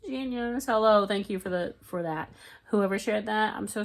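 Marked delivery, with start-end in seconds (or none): 0.1-0.7 hushed delighted whisper; praising a clever crafting trick; whispered awe. Retold or imitated. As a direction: breathe it out in admiration. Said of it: "I'm like".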